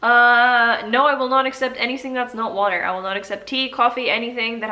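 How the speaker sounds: loud playful scolding; mock stern refusal. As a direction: put your foot down, hammed up. Scolding viewer about drinking only water.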